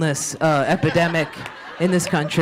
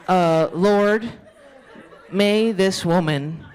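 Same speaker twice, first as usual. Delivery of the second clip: slow mock prayer with long pauses. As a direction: pray haltingly, phrase by phrase. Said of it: "Let's put our hands in prayer".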